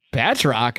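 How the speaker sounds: henchman repeats Batroc as a falling, baffled question; puzzled question. Retold or imitated. Henchman baffled at boss's choice, puzzled. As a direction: say Batroc in disbelief. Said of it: "And the guy's like".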